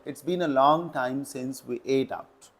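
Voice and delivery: very slow, word by word reading; slow model sentence. Shown as a demonstration. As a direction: dictate the correct sentence slowly. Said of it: "ये सही concept है". (बहुत धीमे, शब्द-दर-शब्द)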